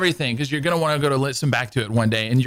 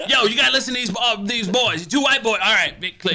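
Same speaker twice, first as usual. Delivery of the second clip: mock Big Yang ad; 8 semitones higher than usual. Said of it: "get that guy to, like, market your show".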